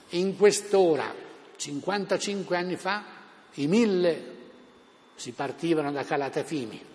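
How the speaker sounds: orate like a fiery tribune; town crier. Retold or imitated. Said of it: "la parola a Gabriele D'Annunzio".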